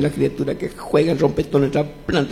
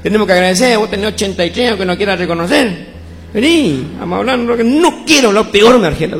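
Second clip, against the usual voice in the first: put-on higher and louder, an old man calling across the house; calling out to his wife; 5 semitones higher, 4 dB louder than usual. Grandfather calls his wife out of the bedroom, loud and higher. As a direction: call her in from the other room.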